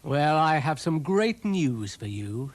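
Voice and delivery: slow, sly villain tease; evilly. Acted. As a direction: relish the trap, slowly. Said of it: "said Dougal evilly".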